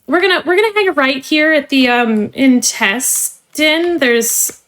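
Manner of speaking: polished corporate trainer voice; cheerful company onboarding spiel; customer service voice. Acted. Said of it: "let me put away my customer service voice now".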